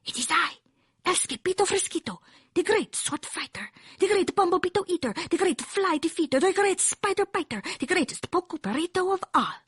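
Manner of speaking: high, grand swordfighter kitten voice; boastful kitten hero. A narrator's reading. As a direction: proclaim your titles as a tiny hero. Kitten grandly introduces himself, accented.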